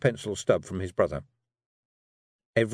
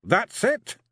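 high, louder gruff Scots grumble; growling Feegle; 13 semitones higher, 4 dB louder than usual. A narrator's reading. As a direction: grumble it, disgusted by the letters. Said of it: "he said".

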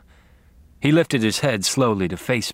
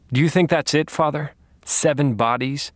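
taunting; 5 semitones higher than usual. Acted. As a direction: needle him with mock curiosity. Taunting the captive priest.

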